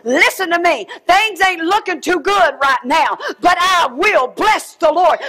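preacher rallying his own soul; self-persuasion. Retold or imitated. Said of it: "persuade his own self".

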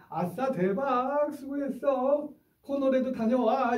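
high, slow, drawn-out cheer; cheerful encouragement. Shown as a demonstration. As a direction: praise the kid to the skies. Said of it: "격려해 주시는 게".

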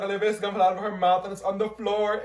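ordinary delivery

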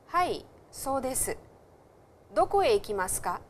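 textbook lines read clearly for students; dialogue read aloud. Shown as a demonstration. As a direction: read both parts out for the class. Reads dialogue aloud to class.

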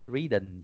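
"reading" with a swallowed ending, like "ree-dn"; mispronounced reading. Shown as a demonstration. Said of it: "gì đó là pronunciation nha".

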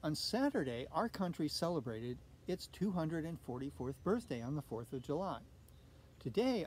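gentle storybook read-aloud; reading to children. A narrator's reading. Teacher reading a picture book aloud to children. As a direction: read it like storytime for little kids.

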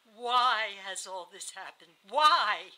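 slow, loud reproach; anguished questioning. A narrator's reading. Dying wife pushing her husband back, anguished. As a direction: draw it out, then burst out on the last word.

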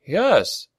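high, slightly smug yes; trace of smugness. A narrator's reading. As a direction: let a little smugness show. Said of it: "with just a trace of smugness".

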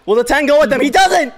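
high, loud race reaction, building to a shriek; excited disbelief. Real, not acted. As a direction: call it in mounting shock. Live reaction to race upset.

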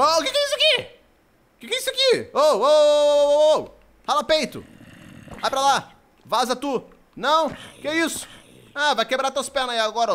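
high, loud startled outburst; alarmed yelling. Real, not acted. Streamer shooing off a threat in game, alarmed high shouting. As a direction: yell in sudden alarm, pitch shooting up.

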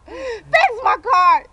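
slow, loud plea; drawn-out demand. Real, not acted. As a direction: stretch it out and beg loudly. Pleading to fix car.

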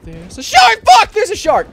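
screaming in real panic at a shark; panicked shout. Real, not acted. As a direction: yell the warning, terrified.

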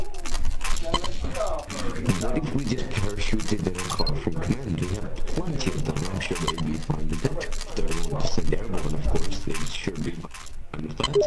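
loud in-character soldier pitch, ends whispered; eager trooper pitching a plan. Acted.

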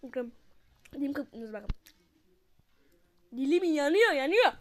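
talking through a burning mouth; hot spicy food in mouth. Real, not acted. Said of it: "Ağzım yanıyor lan".

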